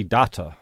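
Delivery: "data" as Americans say daughter; drawn-out "data" imitating a mispronounced daughter; American-style daughter. Showing a friend how Americans say daughter, imitated accent slip. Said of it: "the way they say daughter".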